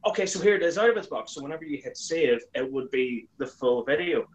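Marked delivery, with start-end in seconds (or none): 0.1-1.3 higher, eager toy-review intro; chirpy reviewer opening, higher; early presenter voice. Retold or imitated. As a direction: play your younger self hosting a review. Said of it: "hit record again and go".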